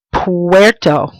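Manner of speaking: "Puerto" with the u gliding like a W. Shown as a demonstration. Teacher showing a diphthong, "Puerto" with a W sound. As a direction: glide the ue of "Puerto" into one sound. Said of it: "that sounds like a W".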